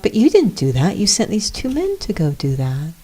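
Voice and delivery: gently innocent, lifted pitch; innocent and pure. Retold or imitated. Jesus reasoning with Pontius, innocent and pure. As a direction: guileless reasoning, voiced lightly high. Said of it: "as innocent and pure".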